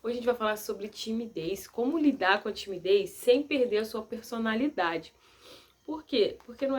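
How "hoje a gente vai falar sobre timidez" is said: unvoiced whispered retake of the intro. Shown as a demonstration. Whispering the intro again because little Samuel wants to join in. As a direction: whisper the opening line so Samuel can join. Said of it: "E o Samuel quer participar".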